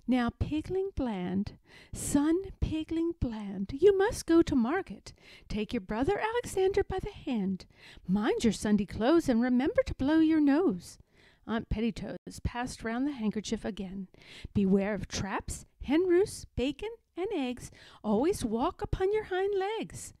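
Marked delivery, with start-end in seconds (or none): 0.1-11.0 a mother sending her son off with advice; solemn mother pig. Acted. Aunt Pettytoes instructing son. 14.5-20.1 put-on high, earnest old sow; a mother pig listing dangers; warning mother pig. Aunt Pettytoes warning her sons, raised pitch.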